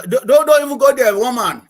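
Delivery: loud and high, half-joking; loud protest. Real, not acted. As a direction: shut the question down loudly. Playfully cutting off the interviewer.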